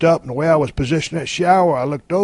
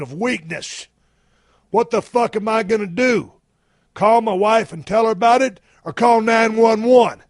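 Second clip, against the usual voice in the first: raised-pitch, hammed-up plea for help; mock panic; 5 semitones higher than usual. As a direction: act out a helpless man working himself up. Acted panic, trapped in shower.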